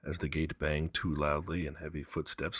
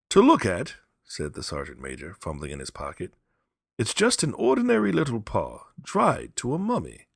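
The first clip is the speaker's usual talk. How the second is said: gruff soldier; 6 semitones higher, 7 dB louder than usual. Acted. Soldier describes the paw.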